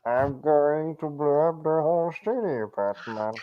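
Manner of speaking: hammed-up villain with a French lilt; French-accented Bane. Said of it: "why do you have a French accent, Batman".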